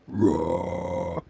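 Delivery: low, soft pretend growl; mock cat roar. Host voices the cartoon cat just drawn, low mock roar. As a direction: rumble a little roar, low and held.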